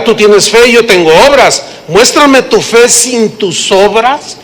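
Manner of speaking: lightly voiced challenger, slow on muéstrame; a hint of a skeptic throwing down a dare; mild mock challenge, slowed down; quoted objector. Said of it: "Pero alguno dirá".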